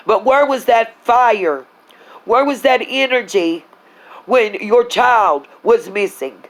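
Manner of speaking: slow indignant rant; angry demand. Real, not acted. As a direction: hammer each word at her. Venting anger at Candace.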